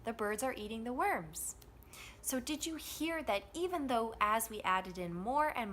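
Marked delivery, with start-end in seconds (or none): 0.0-1.6 three beats on BIRDS, EATING, WORMS; THE and ARE light, squeezed between the stressed words; steady stressed rhythm. Shown as a demonstration. Teacher adding function words in drill, same steady rhythm. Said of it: "the rhythm is going to stay the same".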